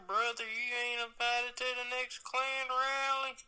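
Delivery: mock redneck voice. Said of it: "you sound too white".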